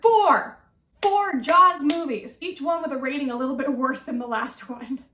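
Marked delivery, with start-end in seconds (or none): 0.0-0.6 loud, high disbelieving shout; exclaimed in disbelief. Real, not acted. Exclaiming number of movies. 1.0-2.4 slow incredulous emphasis. Real, not acted. Repeating in disbelief.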